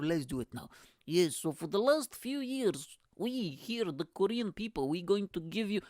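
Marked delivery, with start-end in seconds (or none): 1.1-5.8 lightly put-on Russian accent; Korean with Russian accent. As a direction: play a Korean who sounds Russian. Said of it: "It's a Russian accent".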